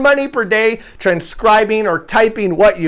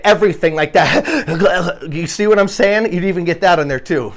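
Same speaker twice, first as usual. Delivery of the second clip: laughing. Real, not acted. Amused while listing recording noises.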